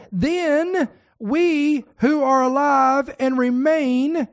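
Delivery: "we who are alive and remain" drawn out slowly, "we" stressed; slow, weighty reading pointing out the second group; slow emphasis. Shown as a demonstration. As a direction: dwell on "we" to mark the group. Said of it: "that's the second group".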